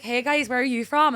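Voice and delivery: put-on loud, cheeky Northern Irish accent; put-on Lurgan accent. Pranking boyfriend's friends, put-on Lurgan accent. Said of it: "you're from Lurgan".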